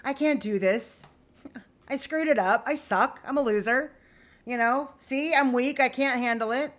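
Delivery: mock the defeated inner voice; victim mindset. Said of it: "that old victim mindset".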